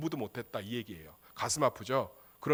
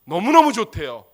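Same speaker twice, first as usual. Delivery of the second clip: louder, punched 너무너무; emphatic repeat; 3 semitones higher, 9 dB louder than usual. Real, not acted. Preacher repeating 너무너무 좋대요 louder to the church. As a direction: lean hard on 너무너무 the second time.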